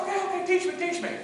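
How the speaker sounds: placating cadet. Retold or imitated. Cadet placating drill instructor, high and meek. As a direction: give in quickly in a high voice.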